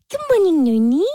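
sing-song morning greeting to the dog; owner greeting dog. Shown as a demonstration. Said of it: "That's how I talk to him".

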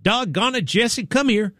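benign dog owner, pitched well up; Alex Murdaugh. Retold or imitated. Host imitates man on tape calling his dog, calm and benign. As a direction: imitate an innocent, harmless call to a dog. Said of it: "voice was so, like, kinda calm and, like, benign".

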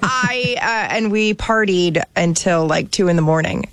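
hoarse from partying late; worn-out hoarse party voice. Real, not acted. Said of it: "if you could hear the party girl voice".

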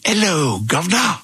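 shouted high greeting, imitating the friends; loud greeting. Friends shouting a greeting across the lobby, loud. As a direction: bellow it across a hotel lobby. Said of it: "at the top of their lungs".

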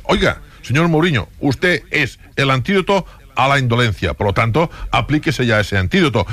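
interpelación algo teatral y enfática; exígele como hincha, marcando cada frase; exigencia actuada. Acted. Interpela a Mourinho ausente. (exigencia algo teatral)

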